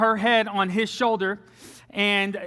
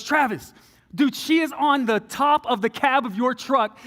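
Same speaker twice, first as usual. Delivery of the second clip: higher-pitched, urgent stepdad; imitated alarm; 4 semitones higher than usual. Stepdad spotting ex on the truck, imitated alarm. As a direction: call out in mock disbelief, pitched up. Stepdad spots singer, calls him.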